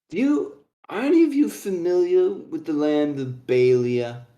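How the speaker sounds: lightly slurred-role dwarf question; drunken dwarf. Acted. Sloshed dwarf quizzing the three about Balia, tipsy voice. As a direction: ask as a tipsy old dwarf. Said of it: "He's pl-, pretty slosh".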